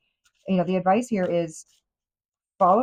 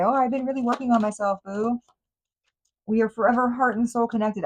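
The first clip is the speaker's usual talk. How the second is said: a lightly voiced, mocking imitation of an insincere ex, pitched higher; mocking fake sweetness; 5 semitones higher than usual. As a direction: sweet-talk it, clearly not meaning a word. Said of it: "they're gonna come in and say".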